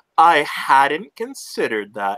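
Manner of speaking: dripping, laid-on, very sarcastic tone. Replying in character to a teasing remark about food: very sarcastic. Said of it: "she says very sarcastically".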